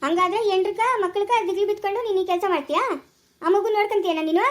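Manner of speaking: high, indignant questioning; angry challenge. Acted. Challenging him over taking in the child, indignant. Acted quarrel, challenging the man.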